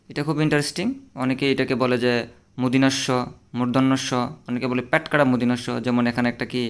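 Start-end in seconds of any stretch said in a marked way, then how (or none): 2.6-5.7 মুদিনাস্য as the common slip; wrong reading. Shown as a demonstration. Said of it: "এগুলো হচ্ছে কি? ভুল".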